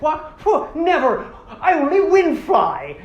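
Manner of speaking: put-on high, loud, scoffing Irish accent. Toa scorns walking with them, loud Irish accent. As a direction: boast in a hammed-up Irish lilt. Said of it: "they would just make them have Irish accents".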